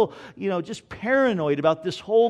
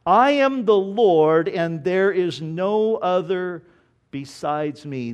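slow, weighty declaration of God's words; solemn scripture reading; slower than usual. Acted. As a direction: proclaim it like the voice of God. Rereads verse five.

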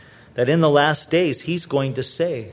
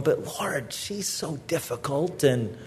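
softer, sulky mock protest; grudging complaint; 2 semitones lower, 8 dB quieter than usual. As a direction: mumble the excuse to God under your breath. Husband's grudging complaint to God.

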